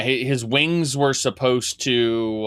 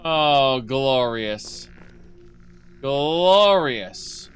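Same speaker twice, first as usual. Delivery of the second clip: gloating; 3 semitones higher, much slower than usual. Retold or imitated. Continues the greedy gloating.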